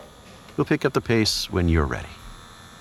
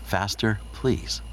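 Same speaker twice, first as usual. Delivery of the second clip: mimicking her plea, pitched higher; mock pleading; 5 semitones higher, much slower than usual. Lover mimics his girl's plea, mock pleading. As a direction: play her begging back to her. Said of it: "Use the magic words".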